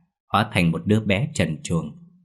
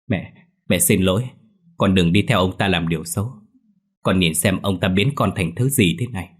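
sobbing; 4 dB louder than usual. Acted. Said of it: "Hiền khóc nấc lên".

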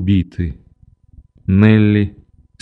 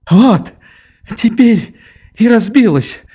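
put-on high, provocative triumphant girl; defiant triumph; 12 semitones higher than usual. A narrator's reading. Nelli taunts the narrator after breaking the cup, high and triumphant. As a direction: crow over the broken cup. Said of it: "с каким-то вызывающим торжеством".

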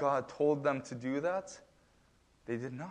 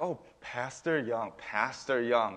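mocking; 3 semitones lower, 4 dB quieter, slower than usual. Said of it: "if someone was trying to mock me".

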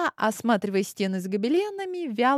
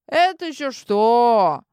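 squeaky mouse voice; 3 semitones higher, 6 dB louder, slower than usual. Acted. Familiar speaks up loudly.

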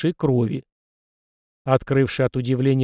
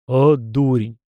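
snorting scoff; 5 dB louder, slower than usual. Acted. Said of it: "фыркнул голос".

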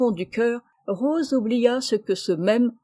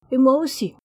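involontaire; 4 semitones higher, 6 dB louder than usual. A narrator's reading. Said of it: "fit involontairement son cousin".

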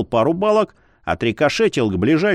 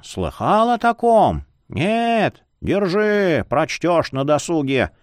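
lightly voiced jolly old man; a creaky cheerful old scholar; 3 semitones higher than usual.

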